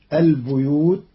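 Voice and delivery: "البيوت" said bi-yoot with kasra on the ba. Shown as a demonstration. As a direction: give "البيوت" an i after the b. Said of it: "بكسر الباء". ("البيوت" بكسر الباء)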